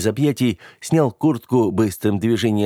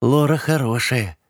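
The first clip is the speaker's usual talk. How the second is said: high, slow, pleased little voice; pleased girl, pitched up; contented; 6 semitones higher than usual. A narrator's reading. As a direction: say it with mild satisfaction, stretched out. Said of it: "довольно проговорила Габи".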